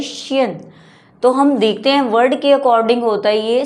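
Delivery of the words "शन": शियन said "shun", with a hushing sh; sh opening शियन in place of z; "shun" pronunciation. Shown as a demonstration. Teacher shows second sound of S-I-O-N, शियन as "shun". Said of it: "और कई बारी शियन".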